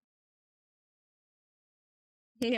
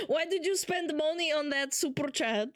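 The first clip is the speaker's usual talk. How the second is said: higher-pitched mock Hungarian accent; 4 semitones higher than usual. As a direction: scold in an imitated Hungarian accent, amused. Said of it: "Hungarian fucking accent".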